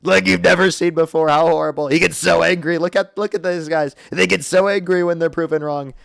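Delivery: mock-gloating persona voice; put-on voice. Streamer gloating after heckler gets banned, put-on voice. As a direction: gloat to chat in the bit voice. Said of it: "I'm done with the voice".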